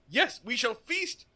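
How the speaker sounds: put-on hammy old man. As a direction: ham it up as a grand old man. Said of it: "I loved every, like, hammy minute of that".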